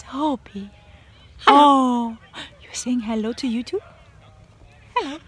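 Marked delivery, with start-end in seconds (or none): none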